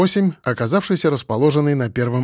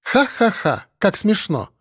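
mock laugh; 6 semitones higher, slower than usual. A narrator's reading. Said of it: "покачала головой".

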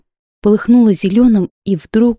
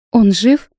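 shaky anxious question; voice trembling; 4 semitones higher, 4 dB louder than usual. Acted. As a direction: let the voice tremble with worry. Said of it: "Голос мой дрогнул".

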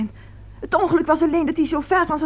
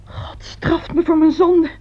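crying confession of guilt; anguished, tear-filled lament; tearful remorse; 3 dB louder than usual. Acted. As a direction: wail it in self-reproach. Guilty mother breaks down.

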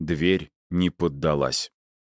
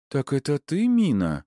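higher-pitched friendly greeting; warm, smiling; 8 semitones higher than usual. A narrator's reading. Mother holds out her hand to the girl, warmly. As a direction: greet the child with a smile in the voice. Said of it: "тепло улыбнулась мама".

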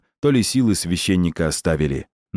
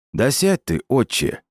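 резко и выше, приказом; осади его окриком; 5 semitones higher than usual. Acted. Стрелец окрикивает священника. (резкий окрик)

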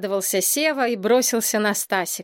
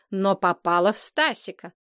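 usual speaking voice

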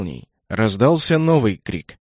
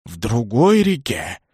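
rumble; 3 semitones lower, slower than usual. A narrator's reading. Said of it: "рокотнул гром".

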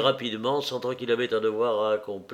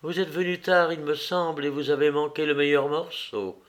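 mocking. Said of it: "d'un air qui lui parut moqueur".

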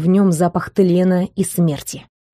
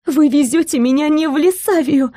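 shocked realization; 7 semitones higher than usual. A narrator's reading. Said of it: "выдохнула я".

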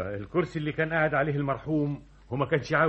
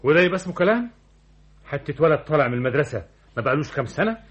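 indignant; 5 dB louder than usual. Acted. New director scorns young secretary.

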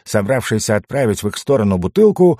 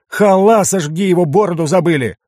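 urgent shout; 8 semitones higher, 4 dB louder than usual. A narrator's reading. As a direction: call out the forgotten friend in alarm. Dwarf shouting to the others.

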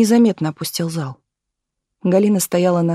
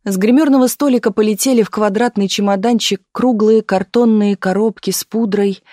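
usual speaking voice

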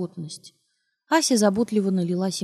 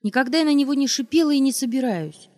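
higher and loud; shout; 6 semitones higher, 4 dB louder than usual. Acted. Wife shouting at husband, higher and louder. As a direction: snap it back. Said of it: "крикнула она".

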